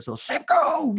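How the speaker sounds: put-on high child voice reading proudly; imitating child. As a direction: sound out the sign like a little kid. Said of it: "what are those letters up there".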